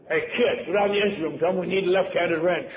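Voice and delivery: mock sailor ordering the kid about; calling out orders. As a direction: send the kid off on an errand. Sailors sending ship fool on errand.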